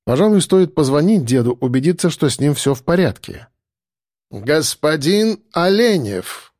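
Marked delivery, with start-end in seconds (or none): 4.3-6.5 slow, stately butler's announcement; formal announcement. A narrator's reading. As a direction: announce the guest grandly. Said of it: "объявил Арнольд".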